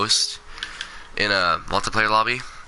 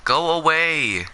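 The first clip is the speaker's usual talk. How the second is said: high, drawn-out call to go away; pleading shooing; 8 semitones higher, slower than usual. Real, not acted. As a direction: stretch it out high and slow, shooing it off. Shooing away the scary Enderman.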